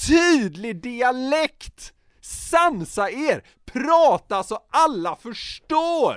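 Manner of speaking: mock rant. Ranting plea to dialect speakers.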